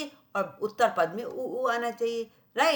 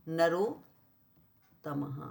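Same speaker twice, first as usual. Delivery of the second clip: slow syllable-by-syllable reading; 4 semitones lower, much slower than usual. Shown as a demonstration. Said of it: "spelled out slowly".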